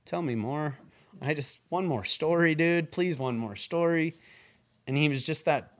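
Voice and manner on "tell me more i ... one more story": higher, begging for one more story; eager pleading. Retold or imitated. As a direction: plead like a kid at bedtime. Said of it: "You could just, like".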